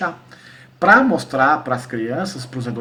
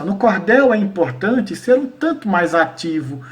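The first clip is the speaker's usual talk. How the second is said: verse recitation. Shown as a demonstration. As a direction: recite the rhymed lines deliberately. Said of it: "é mais ou menos assim".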